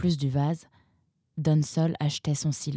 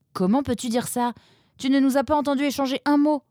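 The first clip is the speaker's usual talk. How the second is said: protesting Nemrod; 9 semitones higher, faster than usual. A narrator's reading.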